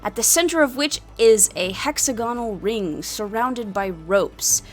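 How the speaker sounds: measured storyteller's scene-setting; game master narration. A narrator's reading. Game master describing a tavern fight pit, narration.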